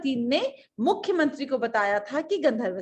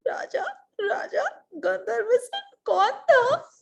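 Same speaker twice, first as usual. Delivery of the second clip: high, slow pleading question; tearful queen; 11 semitones higher, 4 dB louder, slower than usual. Acted. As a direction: whine to the king theatrically. Tearful queen asks king. (रुआँसी रानी की गुहार)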